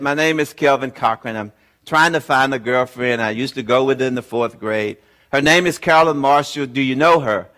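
deflated after too many calls. Retold or imitated. Weary caller at yet another Marshall number, deflated. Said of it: "I was not as enthusiastic this time".

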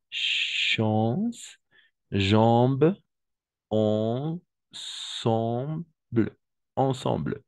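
"Chance, jambes, ensemble" with nasal vowels, drawn out; nasal on demo. Shown as a demonstration. Teacher showing the nasal vowel in "Chance, jambes, ensemble". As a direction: stretch each nasal vowel for the class. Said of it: "Toujours comme un on".

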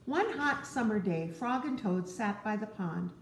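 gentle read-aloud to a little one; storybook narration. Acted. Parent reading Frog and Toad to a child, gently. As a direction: tell it like a bedtime story.

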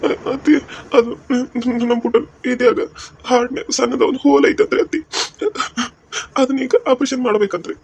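halting, tearful explanation; acted crying. Son-in-law telling mother-in-law of baby's operation, crying. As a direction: sob through the bad news. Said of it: "ನೀನ್ ಯಾಕೆ ಅಳಾತಿದಿ?".

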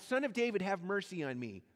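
a blind man calling to be heard; mild mock cry for mercy. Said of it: "he starts crying out".

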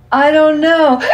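put-on high, loud little girl breathless from laughing; giggly child. A narrator's reading. Little girl to her father, breathless from laughing. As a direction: squeal it out between giggles after the tickling. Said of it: "she answered, hiccuping".

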